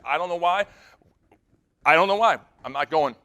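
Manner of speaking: acting out a stubborn refusal; insistent refusal. Wife insists in retold quarrel.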